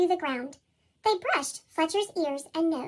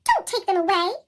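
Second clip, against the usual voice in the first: Fletcher pleading; 2 semitones higher, 5 dB louder than usual. Acted. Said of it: "said Fletcher".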